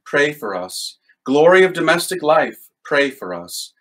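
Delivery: measured call-and-response prayer voice, each "pray for us" dropping low; litany prayer. Acted. Leading viewers in the litany of Saint Joseph, prayerful.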